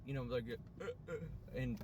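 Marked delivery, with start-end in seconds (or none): 0.8-1.1 short higher-pitched gasps, mimicking crying; demonstrated sob catches; imitated breathless sobbing. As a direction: act out choking for air mid-cry. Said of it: "where I can't even breathe".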